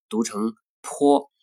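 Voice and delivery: 坡 read slowly as pinyin po with a full vowel. Shown as a demonstration. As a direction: drag out 坡 with its vowel. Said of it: "拼音呢".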